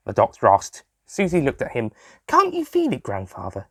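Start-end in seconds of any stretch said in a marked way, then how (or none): 2.3-3.7 nervous. Acted. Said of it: "she asked, nervously".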